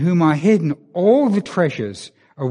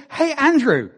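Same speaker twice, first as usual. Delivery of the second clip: lightly voiced Obama, chuckling through it; a friendly greeting broken by laughs; amused mock president, higher; Obama laughing; 8 semitones higher than usual. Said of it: "He said".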